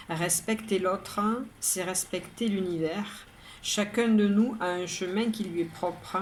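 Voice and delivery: measured poem reading, pauses between lines; poem recitation. Acted. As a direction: recite each verse evenly, pausing after the rhyme. Reads the poem a third time. (lecture de poème, posée, vers par vers)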